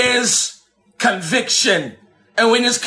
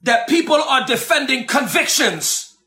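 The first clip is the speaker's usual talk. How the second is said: fiery shouted sermon, rising pitch; preaching; 3 semitones higher than usual. Acted. Preacher shouting down at the fundamentalists. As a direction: preach it hard at the congregation.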